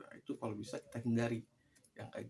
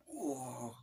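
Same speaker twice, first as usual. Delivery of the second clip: breathy mock roar; held-back roaring "wah"; imitated giant's yell; 2 semitones higher than usual. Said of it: "teriak gitu".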